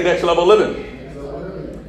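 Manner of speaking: very slow, drawn-out "Next level living."; slow measured call-and-response; slow call to repeat. Shown as a demonstration. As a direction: stretch every word for the church to echo.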